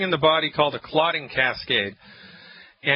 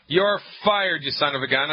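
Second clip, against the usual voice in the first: indignant patient. Acted. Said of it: "I want her to say".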